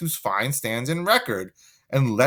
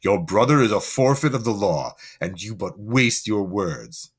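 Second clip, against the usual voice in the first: a hint of a cold, stern judge; stern Christopher Lee; 5 semitones lower than usual. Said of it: "real stern and serious".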